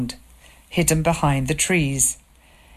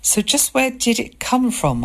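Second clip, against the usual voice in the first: angry; 8 semitones higher than usual. A narrator's reading. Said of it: "I asked angrily".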